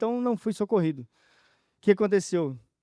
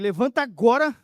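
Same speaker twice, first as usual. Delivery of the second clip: firm, louder quoted order; commanding voice, briefly raised; retold command; 3 semitones higher, 5 dB louder than usual. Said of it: "uma voz que mandou levantar".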